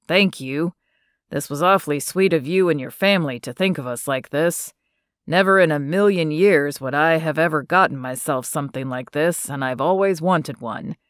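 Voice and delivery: a lightly voiced shy young man, earnest thanks; Brand's voice. Brand thanks Stephanie, read in voice.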